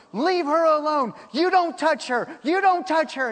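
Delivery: re-enacted protective yell, repeated insistently; imitated yelling. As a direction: snap it out like someone jumping in to defend her. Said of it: "he's yelling at you".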